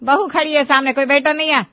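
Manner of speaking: sharp, loud scolding. Acted. Scolding her husband for his careless words, sharp and loud. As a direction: tell him off for his loose talk.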